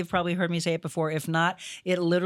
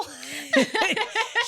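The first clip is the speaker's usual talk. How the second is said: laugh. Real, not acted. Laughing at her own joke.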